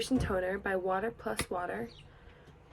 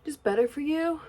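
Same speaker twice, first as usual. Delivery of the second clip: breathless, rushing the words; talking while winded; out of breath; 2 semitones higher, 3 dB louder than usual. Real, not acted. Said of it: "I'm out of breath".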